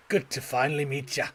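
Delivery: put-on old-salt fisherman voice; Willy. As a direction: greet the newcomer like a seasoned sailor. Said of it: "where we were invited by Willy".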